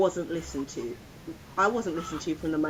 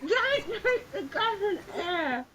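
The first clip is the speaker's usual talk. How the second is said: laughing plea; 14 semitones higher, slower than usual. Retold or imitated. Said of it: "I'm like".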